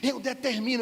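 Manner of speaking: slow, drawn-out preacher decree; a touch of a pompous preacher decreeing; mock preacher decree. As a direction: lightly ham up a pompous preacher. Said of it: "o cara tava pregando".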